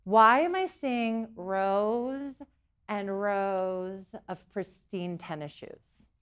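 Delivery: mild puzzlement. Retold or imitated. Medium recounting an odd vision at a reading, mildly puzzled. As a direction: draw it out as if picturing something odd. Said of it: "I'm sitting there and I'm like".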